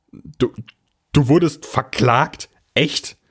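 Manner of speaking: put-on boy's voice jumping up in disbelief; astonished. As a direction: blurt it out, unable to believe it. Boy astonished God was sued.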